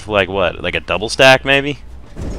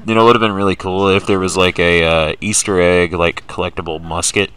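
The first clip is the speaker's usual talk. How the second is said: hands over mouth. Real, not acted. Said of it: "Do you have your hands over your mouth right now?".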